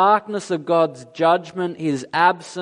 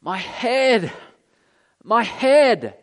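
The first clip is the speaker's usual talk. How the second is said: mock scream of pain; 4 semitones higher, slower than usual. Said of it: "When Jesus screamed, he didn't say".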